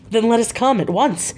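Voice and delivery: a touch of urgent crying out. Acted. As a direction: push them to leave at once. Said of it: "I cried".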